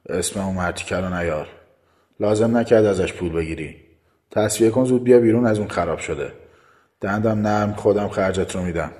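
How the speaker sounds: contained anger, stern orders; restrained, rough-edged command; controlled harshness. Acted. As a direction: keep a harsh tone under tight control.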